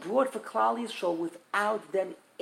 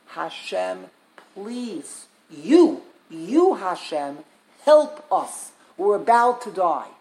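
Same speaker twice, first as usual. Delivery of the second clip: louder, urgent cry for help; desperate plea; 5 dB louder, slower than usual. Acted. Rabbi voicing the Jews crying to Hashem at the sea, desperate loud plea. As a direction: beg for your life, voice surging on help us.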